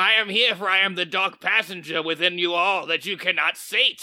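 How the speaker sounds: put-on goblin voice. Playing a dice goblin in a sponsor skit: dice goblin voice. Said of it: "Dice goblin, why are you here?".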